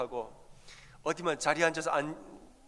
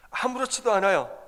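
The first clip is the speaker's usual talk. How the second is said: emphatic; 7 semitones higher, 6 dB louder than usual. Real, not acted. Preacher's emphatic point.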